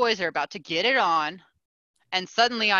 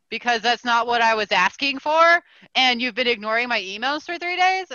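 higher, mildly heated comeback; indignant retort; 4 semitones higher, 5 dB louder than usual. Retold or imitated. Customer answering the publisher over ignored emails, indignant retort. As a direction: push back with a touch of outrage.

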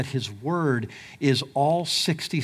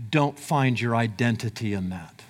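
God's firm command, lower and softer; 6 semitones lower, 3 dB quieter than usual. Retold or imitated. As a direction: speak as God, calm and firm, lower and softer. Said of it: "God will say".

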